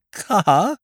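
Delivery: a startled, quavering question; narrator's heart sinks as he quavers. A narrator's reading. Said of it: "I quavered".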